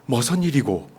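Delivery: a casual Gyeongsang exclamation of surprise; 경상도 사투리로; Gyeongsang dialect. Shown as a demonstration. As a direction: say "머선 일이고" in light Gyeongsang dialect, dialect word 머선 for 무슨. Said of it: "경상도 말로".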